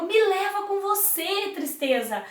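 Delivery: love pleading. Acted. Love begging the sad boat to take him along, pleading. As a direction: beg to be taken along. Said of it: "e o amor falou".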